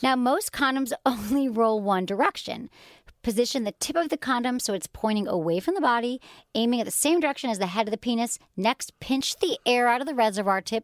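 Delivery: measured reading of safety instructions; flight-attendant delivery. Real, not acted. Host reads condom steps to co-host, flight-attendant delivery. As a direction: read it like an airline safety briefing. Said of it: "You sound like a lady on an airplane".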